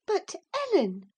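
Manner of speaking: high astonished cry, falling on Ellen; stunned and appealing for help. A narrator's reading. Cathy turns to Ellen in astonishment, high. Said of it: "cried she, staring fixed in astonishment".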